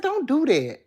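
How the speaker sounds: high, loud mimicked refusal; imitating her. Copying her refusal of a kiss, high mimicked protest. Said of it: "It kinda remind me of her when I did that".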